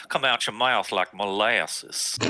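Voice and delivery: slow Southern drawl, syrupy. Shown as a demonstration. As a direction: draw it out like molasses, Southern. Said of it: "a strange Southern drawl to it all".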